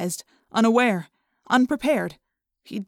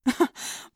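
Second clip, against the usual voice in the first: forced disbelieving laugh; 4 semitones higher than usual. A narrator's reading. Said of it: "The Yeerk tried a disbelieving laugh".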